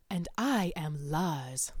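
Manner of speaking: slow whispered line; hushed, drawn-out reference; movie quote whisper. Shown as a demonstration. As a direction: breathe it like a secret film line. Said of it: "That always makes me think of that".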